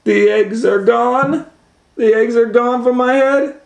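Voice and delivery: high, rising delight; hopeful excitement. Acted. Elephant thinking the eggs are gone, high excited hope. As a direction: lift it high with eager hope.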